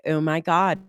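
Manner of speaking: hint of Valley girl Californian; light California accent. Guest illustrating US dialects, California accent. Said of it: "And then in California".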